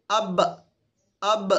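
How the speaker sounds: "اب" stopped on a closed b; lips kept shut. Shown as a demonstration. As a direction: end "اب" with lips pressed, no release. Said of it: "اس ہونٹ کو اٹھنے مت دیں".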